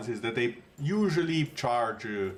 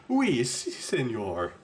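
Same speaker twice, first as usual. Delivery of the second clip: attempted French accent; much slower than usual. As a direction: have a clumsy go at sounding French. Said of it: "do a French accent".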